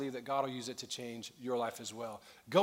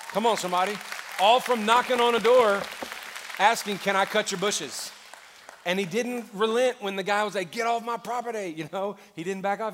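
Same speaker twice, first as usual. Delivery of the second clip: much louder and higher, building to a shout; fired-up preaching; 6 semitones higher, 9 dB louder than usual. Real, not acted. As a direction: preach it to the back row. Pastor's climax of the story.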